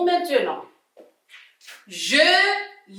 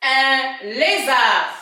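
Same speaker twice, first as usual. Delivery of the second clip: "Un lézard" drawn out slowly, lézard stressed; slow model reading; 4 dB louder, slower than usual. Shown as a demonstration. Teacher modelling a new word slowly for pupils. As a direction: stretch "lézard" so the children hear every sound. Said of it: "Je passe".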